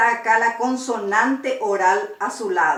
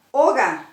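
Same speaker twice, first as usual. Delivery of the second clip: "Oga" stressed on the opening O, falling away; firm O in "Oga", unstressed final a; penultimate stress. Shown as a demonstration. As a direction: lean on the first vowel of "Oga". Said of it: "se acentúa la penúltima".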